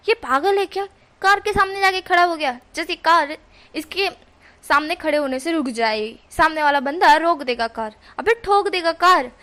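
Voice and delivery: fed-up rant about the man in front of the car; exasperated scolding. Acted. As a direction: scold him like he's lost his mind. John scolds reckless driver.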